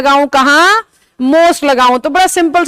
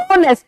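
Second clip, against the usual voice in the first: ऑनेस्ट in two pieces, leaning on the first; split into syllables; faster than usual. Shown as a demonstration. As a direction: divide ऑनेस्ट as "ऑ-नेस्ट" to count syllables. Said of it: "कितने टुकड़े बन रहे हैं बोलते हुए". (ऑनेस्ट को दो टुकड़ों में तोड़कर बोलें)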